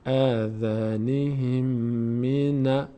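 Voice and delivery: slow, drawn-out Quranic recitation. Shown as a demonstration. Tutor reciting the phrase slowly for students. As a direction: intone the phrase, lengthening every vowel. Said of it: "ه میچسبه به میم".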